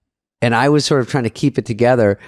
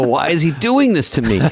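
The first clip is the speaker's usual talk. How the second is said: retold plaintive complaint; 4 semitones higher than usual. Retold inner complaint about the director.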